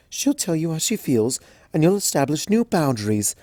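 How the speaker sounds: soothing Rarity. Acted. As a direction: hush her like a kind older sister. Rarity comforting crying Twilight.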